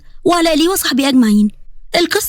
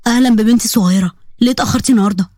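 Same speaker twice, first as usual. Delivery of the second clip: a lower, gentle uncle voice; lightly voiced uncle; 4 semitones lower, faster than usual. Uncle welcoming his niece home, lightly lowered voice. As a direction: greet her like a fond uncle.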